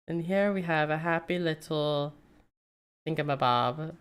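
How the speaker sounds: light hint of a soothing painter voice; Bob Ross. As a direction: gently mimic a calm TV painter. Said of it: "I'm gonna go all Bob Ross on y'all".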